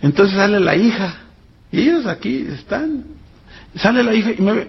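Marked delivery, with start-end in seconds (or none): 3.8-4.7 laughing. Retold or imitated. Shows daughter's overwhelmed reaction.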